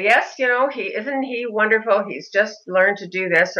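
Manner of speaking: demonstrating an upbeat, smiling reply; smiling, happy attitude. Shown as a demonstration. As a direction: answer a nosy stranger with cheerful pride. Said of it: "I would adopt a smiling, happy attitude".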